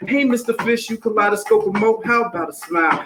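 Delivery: lively singsong rhyme over a beat; rhythmic story reading. Acted. Reading Pout Pout Fish to the audience, rhythmic story reading. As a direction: read it bouncy, riding the rhythm.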